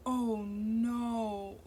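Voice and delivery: breathless whisper of dismay; a stunned, barely voiced oh no; whispered dread. A narrator's reading.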